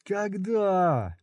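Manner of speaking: high, strained grinding question; teeth-gritted strained cry; through gritted teeth. Acted. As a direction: force it out through clenched teeth. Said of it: "заскрипел зубами Удо".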